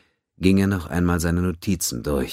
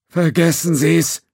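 higher, louder, slow cut-off; brusque; 12 semitones higher, 6 dB louder, slower than usual. A narrator's reading. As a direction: shut him down firmly. Judge cutting him off.

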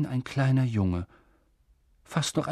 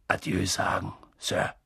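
timid; 4 semitones lower than usual. A narrator's reading. Hagrid timid farewell request.

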